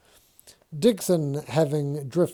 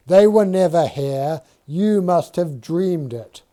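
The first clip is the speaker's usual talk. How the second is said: louder, troubled defensiveness; defensive Dixon; 3 semitones higher, 5 dB louder than usual. Acted. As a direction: push back, rattled and uneasy.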